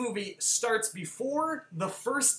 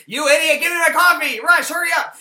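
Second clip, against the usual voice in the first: loud, high mock tirade; irate shouting; 9 semitones higher, 12 dB louder than usual. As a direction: impatiently yell orders at someone. Acting out film character's coffee-order tirade.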